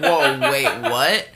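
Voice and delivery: surprised. Retold or imitated. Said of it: "people were all like".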